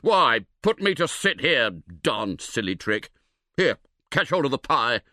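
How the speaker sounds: a hint of a grumbling, put-upon friend; lightly voiced annoyed Harris; grumpy Harris. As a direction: mutter about the silly trick, then hand up the pie.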